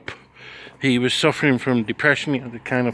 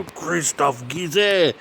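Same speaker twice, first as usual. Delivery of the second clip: retold call-out; much slower than usual. Pointing, naming long-lost friend again.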